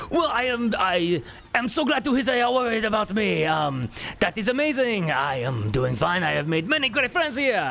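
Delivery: a nobleman babbling in sheer panic; panicked duke. Acted. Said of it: "this is not gonna be me shouting".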